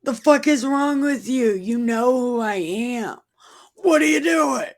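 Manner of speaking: high-pitched incredulous outburst; comic high, squawking reproach; mock exasperated scolding. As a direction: scold in hammed-up disbelief. Acting Jesus scolding frightened Peter.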